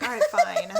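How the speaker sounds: very high mock dismissive squeak. Wife teasing husband who objects, high mocking squeak. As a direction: brush him off in a silly high voice. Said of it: "I'm like".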